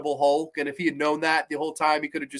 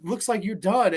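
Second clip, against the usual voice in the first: mock nervous; 4 semitones higher than usual. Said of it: "And the mummy goes".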